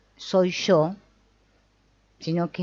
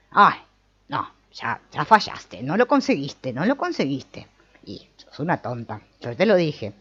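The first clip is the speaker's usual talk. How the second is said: scolding inner voice; 2 semitones lower than usual. Retold or imitated. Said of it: "Esas voces internas que resuenan".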